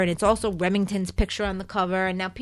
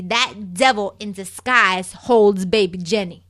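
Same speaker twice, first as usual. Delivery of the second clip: ordinary talk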